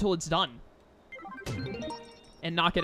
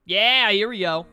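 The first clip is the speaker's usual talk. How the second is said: excited; 7 dB louder, slower than usual. Real, not acted. Excited at popularity event.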